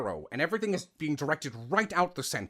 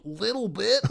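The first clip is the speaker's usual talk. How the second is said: slightly nasal demo; 6 semitones higher than usual. Shown as a demonstration. Voice actor showing a little nasality, nasal. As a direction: send it a little through the nose. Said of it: "that's nasal".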